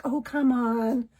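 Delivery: slow, gentle coaxing. Retold or imitated. Mother coaxing her son toward the shower, slow and gentle. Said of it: "to coaxing".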